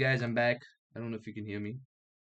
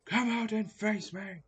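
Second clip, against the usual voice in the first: mild mock challenge; 7 semitones higher, slower than usual. Game-like challenge voice.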